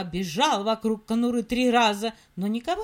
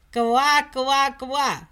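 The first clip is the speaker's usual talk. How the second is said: loud laughing croaks; frog croak; 6 dB louder, much slower than usual. Acted. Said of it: "засмеялась лягушка".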